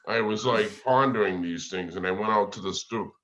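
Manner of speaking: New England accent, r's dropped; storytelling in a played-up New England accent. Shown as a demonstration. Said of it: "New Englander accent".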